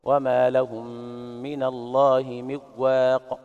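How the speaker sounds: slowly chanted, no nasal ghunna on من; recitation without ghunna. Shown as a demonstration. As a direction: recite من واق with the ن merged into و and no nasal hum. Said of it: "يترك الغنة عند الواو والياء".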